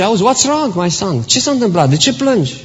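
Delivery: worried father, only lightly voiced. Father asks crying child.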